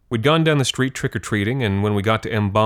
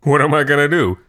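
put-on higher, louder jolly old man; booming good-natured old guy; jovial boast; 4 semitones higher, 3 dB louder than usual. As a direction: joke grandly about the candy. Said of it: "he always said".

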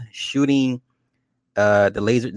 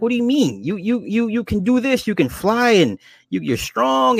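high-pitched mock protest; imitating a pleading objection, much higher; retold incredulous pleading; 10 semitones higher than usual. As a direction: act out her disbelief, voice way up. Maeve protests in retold argument.

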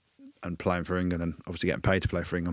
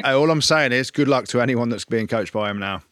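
laughing jibe; 3 semitones higher, 4 dB louder than usual. Real, not acted.

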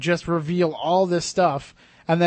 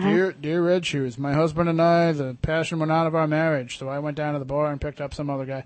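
monotone David Duchovny. Retold or imitated. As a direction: read it flat with no melody at all. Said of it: "in the most monotone voice".

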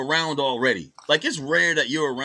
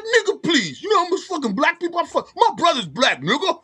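high-pitched mock indignation; mock confident arguing; 10 semitones higher than usual. Girl too comfortable arguing her point, mock indignant. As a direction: argue the point in a put-on high voice. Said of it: "trying to argue their point".

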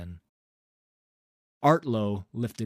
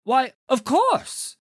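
much higher, louder, slow fawning exclaim; eager agreement; 9 dB louder, slower than usual. A narrator's reading. Director agreeing to his patron, fawning and high. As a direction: gush to please the patron.

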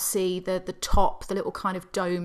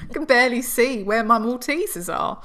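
mock annoyed theatregoer; 5 semitones higher, 3 dB louder than usual. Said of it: "people were thinking".

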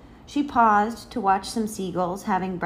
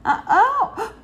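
high, loud uh-oh with gasps; startled child's gasping exclamation; great surprise; 7 dB louder than usual. A narrator's reading. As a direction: cry out in shock, then gasp. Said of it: "said with great surprise".

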